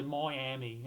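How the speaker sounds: Miami lightly Irish, first syllable as "moy"; Irish accent. Shown as a demonstration. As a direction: slip into mock Irish just for Miami. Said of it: "Irish accent".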